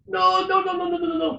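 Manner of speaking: put-on high insistent French accent, no after no; French barman accent. Barman refusing the Coke order, insistent mock French accent. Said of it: "excuse my accents".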